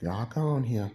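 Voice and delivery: brushing people off; mock dismissive. Imitating a dismissive gesture.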